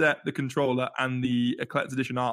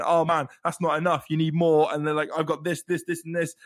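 imitating fans getting hyped; mildly hyped-up quoted chatter; 2 semitones higher, 3 dB louder than usual. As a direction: pile it on like an eager fan. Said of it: "people, like, just being hyped".

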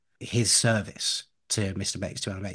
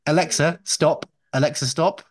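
raised, higher command to a smart speaker; 6 semitones higher, 5 dB louder than usual. Real, not acted. Host orders interrupting smart speaker to stop, commanding. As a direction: call out firmly to the device.

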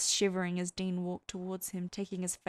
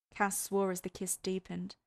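plain reading voice

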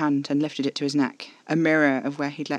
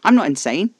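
louder, insistent denial; sincere protest; 3 semitones higher, 9 dB louder than usual. A narrator's reading. Caspar denying he is insane, insistent and sincere. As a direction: protest it forcefully and earnestly. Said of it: "eyes glistening with sincerity".

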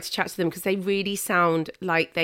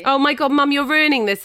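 louder, higher exasperated scolding; 6 semitones higher, 6 dB louder than usual. Real, not acted. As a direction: scold Mum in loud exasperation. Daughter scolds mum for disrupting guests.

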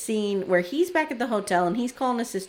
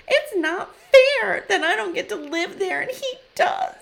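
mock tearful; 10 semitones higher, 4 dB louder than usual. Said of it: "breaking out into tears".

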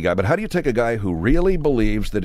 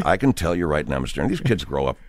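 low, soft, worried radio guest; hushed earnest coach, pitched well down; dead-serious coach; 7 semitones lower, 4 dB quieter than usual. Shown as a demonstration. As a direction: confide it gravely, then get briefly distracted. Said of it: "that's a funnier way to go".

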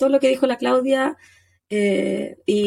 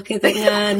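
laughing through pain; 2 semitones lower, slower than usual. Real, not acted. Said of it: "me da mucha tos reírme".

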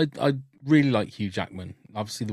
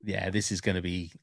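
lower, smug executive voice; studio execs; 5 semitones lower than usual. Retold or imitated. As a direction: imitate a pleased studio boss. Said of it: "studio execs ... gone".

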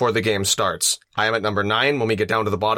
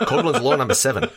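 put-on Aussie announcement; Australian accent; 3 semitones higher than usual. Co-host announces a drinking-game rule, mock Australian accent. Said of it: "keep saying that in the accent".

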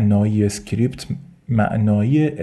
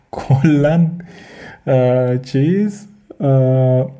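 drawn-out DB impression; 3 semitones higher, 3 dB louder, much slower than usual. Lecturer laughs while imitating DB's slow rising "کلاً". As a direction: drag out "کلاً" laughing, rising at the end, doing DB.

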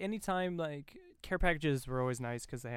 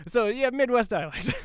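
giggling, raised and louder; laughing; 9 semitones higher, 7 dB louder than usual. Real, not acted. Distracted by a friend, wrapping up through giggles. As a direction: laugh it out while finishing. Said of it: "Dan's distracting me".

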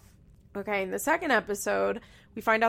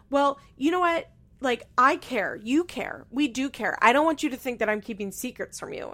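higher, louder earnest plea; pleading Leah; 3 semitones higher, 4 dB louder than usual. Retold or imitated. Leah reassuring Jeremy about a text, higher urgent mock voice. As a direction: imitate her rushing to reassure him.

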